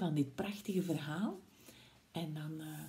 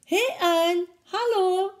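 much higher, brightly called hello; cheery mouse greeting; 11 semitones higher, 6 dB louder, slower than usual. Acted. Mouse greets Snake in front of the Gruffalo, high and cheery. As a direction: sing out a hello to a friend. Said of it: "zei de muis".

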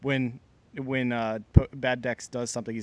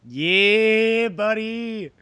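loud, high cheer; excited shout; 8 semitones higher, 7 dB louder, much slower than usual. Real, not acted.

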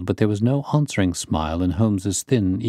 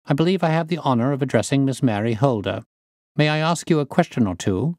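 slightly raised, polite inquiring voice; lightly voiced courteous detective; 6 semitones higher than usual. Detective introducing himself to the niece, lightly voiced and courteous.

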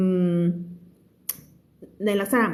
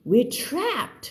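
frightened character line; 7 semitones higher than usual. A narrator's reading. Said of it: "He turned pale".

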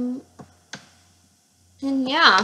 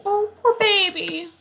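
sympathetic cooing; 9 semitones higher than usual. Real, not acted. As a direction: coo with pity, pitched well up. Cooing over a baby in game.

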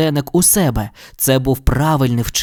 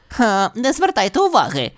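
mock whisper; 8 semitones higher than usual. A narrator's reading. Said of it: "прошепотів Ніблз до друзів".

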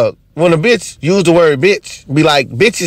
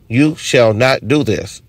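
slow, lower pronouncement; solemn commandment; 5 semitones lower, slower than usual. Acted. Automatic button halting everybody, solemn slow command. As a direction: lay down the law slowly, word by word.

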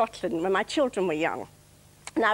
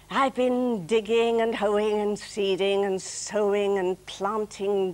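weary gardener's verse, measured and drawn out; deliberate poetry reading; comic poem recital; slower than usual. Acted. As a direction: recite it slowly, pausing before the punchline.

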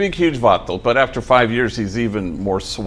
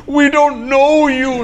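a much higher, slow, shrieking mock-panic; frightened wife; 5 dB louder, slower than usual. Wife clutching her kid answers the homie, mock-panicked squeal.

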